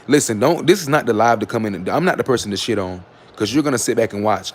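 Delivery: firm and loud, put them in their place; scolding. Real, not acted. Streamer scolding a rude commenter in her live, loud and firm.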